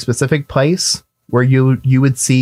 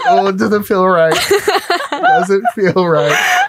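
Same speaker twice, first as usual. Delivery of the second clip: high, slow creepy drawn-out voice; spooky horror film line, stretched out; eerie movie voice; 8 semitones higher, slower than usual. Acted. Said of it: "and you go".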